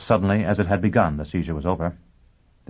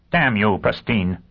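snapped; 3 semitones higher, 4 dB louder, slower than usual. Acted. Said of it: "Dagenham snapped".

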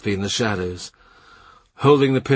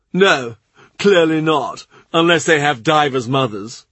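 deadpan joke, a touch raised; Cromwell's dry reply; 5 semitones higher, 5 dB louder than usual. Acted.

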